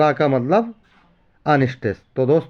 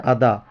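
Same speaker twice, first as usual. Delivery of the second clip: "अदा" with weak अ and a pushed, heavy दा; stress on DA; 5 semitones lower, slower than usual. Shown as a demonstration. Teacher showing iambic beat to students, stress on दा. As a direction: say "अदा" light then hit दा. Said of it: "आ से हो गया unstress और दा में बढ़ा के मारा दा".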